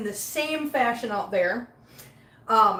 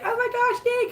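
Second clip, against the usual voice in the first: retold delight; 13 semitones higher than usual. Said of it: "and I was like".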